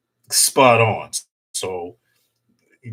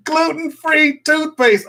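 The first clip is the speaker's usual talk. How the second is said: higher and slowed, drawn out in disbelief; mock disbelief; 12 semitones higher, 4 dB louder, slower than usual. Real, not acted. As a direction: spell it out like it's absurd. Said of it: "repeating in disbelief".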